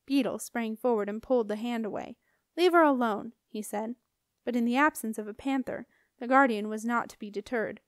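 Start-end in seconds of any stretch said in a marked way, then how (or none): 2.6-3.3 firm warning. Acted. Beetle pulls guardian's hand away.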